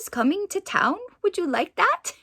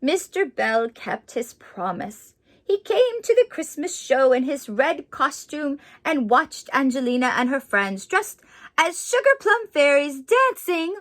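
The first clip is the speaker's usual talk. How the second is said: story narration. A narrator's reading. Reads picture book aloud.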